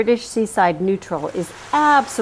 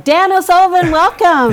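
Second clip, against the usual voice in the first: excited welcome; 8 semitones higher, 6 dB louder than usual. Acted. Host welcoming guest.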